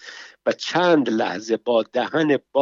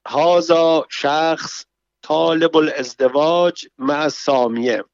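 a lightly raised, slow woman's cry; mock shout; 3 semitones higher than usual. Sister cries out to her raging brother, a mild shout. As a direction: call it out, a bit higher and drawn out. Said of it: "سامیه به نوبت خود فریاد زد".

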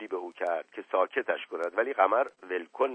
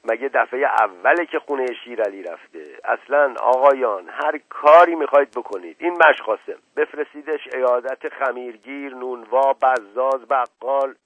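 forceful but held-in irritation; restrained anger; 5 dB louder than usual. Acted. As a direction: keep the anger under control, letting it show in bursts. (خشم فروخورده)

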